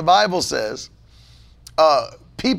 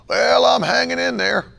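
higher, mock-tired sigh of a reply; mocking a weary reply; 8 semitones higher than usual. Preacher mimics a churchgoer's tired answer, mocking. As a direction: parody the limp church greeting. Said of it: "Stop saying stuff like that".

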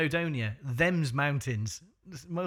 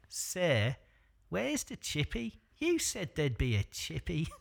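put-on forlorn child; slower than usual. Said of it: "one child forlornly".

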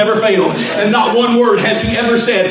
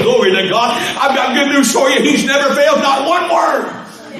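full-force preaching; 3 semitones higher than usual. Acted.

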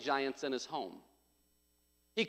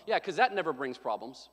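dry, low sarcastic agreement; sarcasm; 4 semitones lower than usual. Shown as a demonstration. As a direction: agree while meaning the opposite. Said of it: "That's sarcasm".

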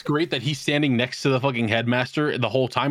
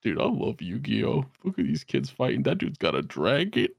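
stoned chancellor; 3 dB quieter than usual. Retold or imitated. Stoned Chancellor watching the duels, acted.

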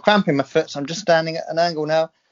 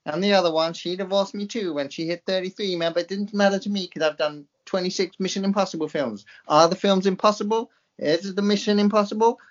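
mock American accent; 2 semitones higher than usual. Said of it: "Listen to my American accent".

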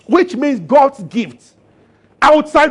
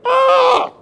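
surprised ah. Acted. God hears Jonah's prayer.

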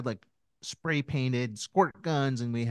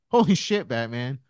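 son's catchphrase; 2 semitones higher, 9 dB louder than usual. Retold or imitated. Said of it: "he combined it and created".

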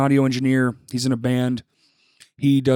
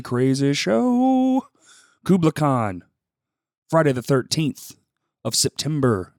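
hyped up; 3 semitones higher, slower than usual. Acted. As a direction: drag it out big like a showman. Hyping the show in promo.

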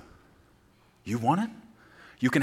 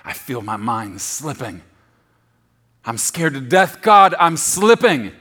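frightened cry; 10 dB louder than usual. Acted. David in the fetal position crying to God, panic building. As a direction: panic rising to a desperate plea. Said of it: "crying out to God".

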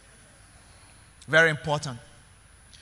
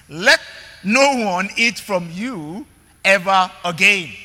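louder, slow and forceful curse; Jesus's stern reply; 3 dB louder, slower than usual. Acted. Jesus answering the fig tree, louder and slow. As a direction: pronounce it on the tree with authority. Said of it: "P J said".

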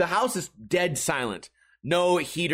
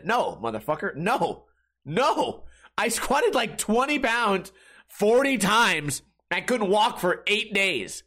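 exasperated; 6 semitones higher, slower than usual. Real, not acted. Exasperated rebuttal to viewers.

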